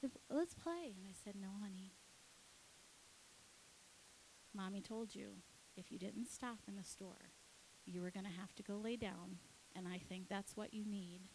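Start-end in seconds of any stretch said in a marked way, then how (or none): 0.0-0.9 high put-on toddler voice; pitched-up, childlike plea; little boy. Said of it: "Declan goes". 1.3-11.3 softened parent voice; acting out a mother explaining a consequence; gently firm mother. Mother gently refusing child, retold.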